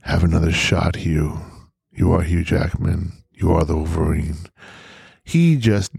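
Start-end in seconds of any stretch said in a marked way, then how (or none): 0.0-4.5 lower, lightly voiced coaxing; Ryan Reynolds coaxing. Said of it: "Whispering in his ears over and over again".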